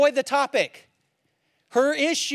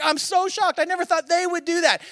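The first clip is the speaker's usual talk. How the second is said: higher, louder fake gasp of shock; mock shock; 8 semitones higher, 4 dB louder than usual. Preacher mocking people shocked by others' failures, higher and louder. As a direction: ham up the pious surprise. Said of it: "We're the one who are like".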